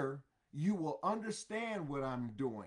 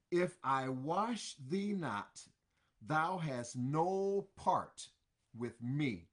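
slow solemn Jesus; 2 semitones lower, slower than usual. Acted. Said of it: "Jesus tells him".

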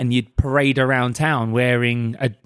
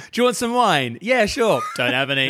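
acted dialogue; 5 semitones higher than usual. Acted wine exchange.

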